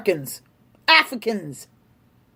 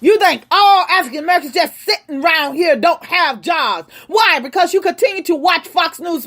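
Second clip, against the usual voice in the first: angry shout; 2 semitones higher, faster than usual. Real, not acted. Angry rant at commenters.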